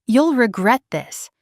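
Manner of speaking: slow, strained angry threat; cracked furious warning; voice cracking with fury. A narrator's reading. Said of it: "Dad's voice cracked with fury".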